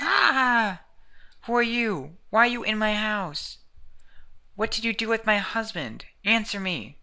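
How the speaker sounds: wife demanding answers in a panic; frantic housewife. Acted. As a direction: scream at the intruder. Voicing shrieking woman at home.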